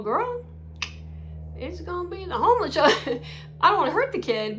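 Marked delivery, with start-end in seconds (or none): 0.0-3.2 telling the mom off with a pointed retort; sassy retort. Retold or imitated. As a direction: toss it back with attitude.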